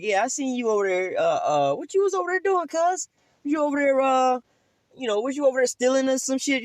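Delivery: accuser. Retold or imitated. Neighbour accusing the guilty man, high teasing voice.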